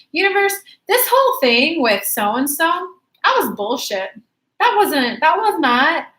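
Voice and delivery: emphatic declaration. Acted. Client telling the universe what she won't accept, emphatic.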